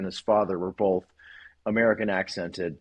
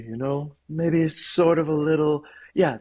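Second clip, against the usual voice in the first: lightly raised pitch for a woman; a modest, less exaggerated female character voice; softer-edged female voice; 5 semitones higher, 3 dB louder than usual. Shown as a demonstration. Narrator refining his female voice for the hosts, gently higher-pitched. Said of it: "that's more like my female voice".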